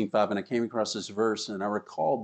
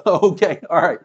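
laughing okay; 7 semitones higher, 8 dB louder than usual. Real, not acted. Laughing at audience joke about time.

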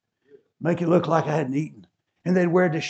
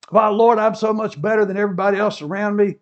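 louder, fast braggart's prayer; boastful prayer; 4 semitones higher, 6 dB louder, faster than usual. Retold or imitated. Pharisee bragging loudly to the Lord. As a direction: crow about yourself to God. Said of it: "he goes on to say".

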